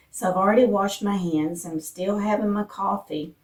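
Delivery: husky just-woke-up morning voice; morning voice, throat not warmed up yet. Real, not acted. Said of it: "I've got my morning voice going on".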